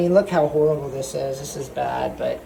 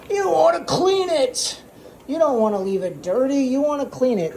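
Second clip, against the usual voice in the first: silly self-imitation; 11 semitones higher than usual. Host mimics his own silly clean-it advice, high goofy voice. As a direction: ham up a sing-song how-to. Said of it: "I literally just went just like this".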